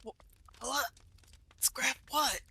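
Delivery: whispered, just woken up; half-asleep whisper in the dark; groggy whisper. Acted.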